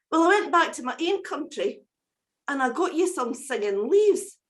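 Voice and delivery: a small rescued bird thanking its saviour; wee cuckoo voice. Acted. Cuckoo presents the gift.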